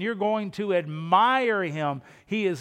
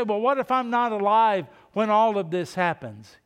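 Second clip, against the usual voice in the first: doubting listener; 3 semitones higher, 5 dB louder than usual. Retold or imitated. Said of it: "You say".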